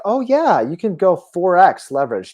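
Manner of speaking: breezy, high-pitched mock "oh yeah"; imitated nonchalance. Host mimicking YouTube commentators pushing leverage, nonchalantly. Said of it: "they just say this nonchalantly".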